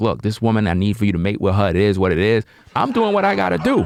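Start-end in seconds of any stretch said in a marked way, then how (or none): none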